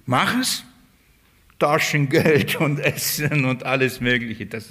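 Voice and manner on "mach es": Mach es, higher with a rising es; higher insistent order; raised command. Shown as a demonstration. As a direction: push Mach es up as an insistent demand. Repeated command, two takes.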